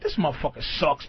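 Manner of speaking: low, quick, soft aside; imitating a robber talking under his breath. Imitating the robber insulting him from behind, under his breath. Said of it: "saying shit under his breath".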